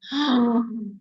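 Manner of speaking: audible dismayed gasp. Retold or imitated. Mother hearing her daughter refuse to go out, dismayed gasp. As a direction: draw in a sharp breath.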